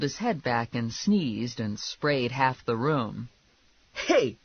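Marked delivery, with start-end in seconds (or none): 3.9-4.4 higher-pitched sharp objection; mild yell. Acted. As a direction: call out in protest, short of a scream. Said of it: "Lula yelled".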